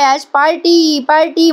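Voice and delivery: high, drawn-out party cry without full volume; mock drunken cheering. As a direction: imitate a tipsy reveller calling for a party. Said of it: "म्हणून ओरडाआरडा करायला लागते". (नशेतल्या ओरडण्याची उंच, लांबवलेली नक्कल)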